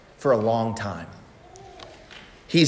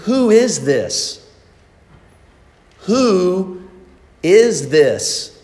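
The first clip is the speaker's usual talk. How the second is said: wondering cry; 4 semitones higher, much slower than usual. Retold or imitated. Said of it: "They cried out to one another".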